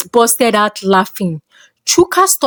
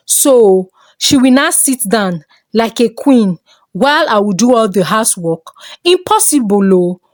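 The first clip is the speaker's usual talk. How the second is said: scoffing. Acted. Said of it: "Mama Chuka scoffed".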